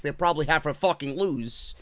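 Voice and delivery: ordinary delivery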